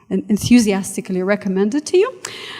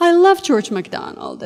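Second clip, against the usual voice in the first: gasp, then "love" lifted high; excited fan; 9 semitones higher than usual. Retold or imitated. Audience member recalled by lecturer, mock gushing excitement. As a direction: gush like a fan meeting an idol. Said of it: "somebody said".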